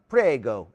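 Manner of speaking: Prego said the Italian way, clipped; Italian word said. Shown as a demonstration. Explaining Italian you're welcome, Prego in Italian. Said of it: "in Italy, you say".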